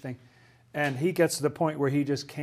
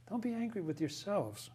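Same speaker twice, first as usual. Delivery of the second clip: much softer, tender echo of "Don't be angry with yourselves."; 5 semitones higher, 10 dB quieter than usual. Shown as a demonstration. Teacher repeats Joseph's words to the class, softly and tenderly. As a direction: let the words land gently, like a forgiving brother. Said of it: "Do you hear the divine love in that?".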